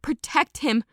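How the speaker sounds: urgent command over the chaos; roar. Acted. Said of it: "I roared".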